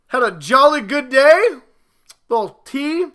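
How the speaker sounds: high-pitched mock English accent; bad English accent. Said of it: "my bad English accent".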